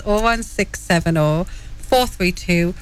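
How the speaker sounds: measured reading of a phone number; deliberately slow. Real, not acted. Co-host gives listeners the number to call, trying to go slow. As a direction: space out the digits carefully. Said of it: "I'm trying to go slow here".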